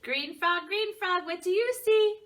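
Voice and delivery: put-on high, building children's chant; picture-book refrain. Teacher reciting the frog refrain to children, lively chant. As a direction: recite it to kids, rising to a loud question.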